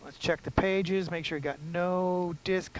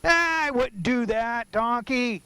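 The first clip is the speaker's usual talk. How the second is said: high, loud mock scolding; mocking himself; 7 semitones higher, 5 dB louder than usual. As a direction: scold yourself in a teasing voice. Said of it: "I like to make fun of myself".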